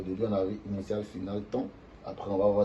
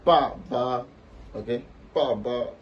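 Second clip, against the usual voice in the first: pa ba falling, then held level; first tone on second syllable; 3 semitones higher, 5 dB louder, much slower than usual. Shown as a demonstration. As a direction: drop "pa", then stretch "ba" on a steady pitch. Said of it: "premier ton, ça va donner".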